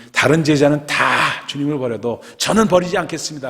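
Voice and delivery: loud, high, emphatic pledge; Peter's bold vow. Acted. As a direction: declare loyalty with full conviction. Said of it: "하고 고백했던 그였습니다".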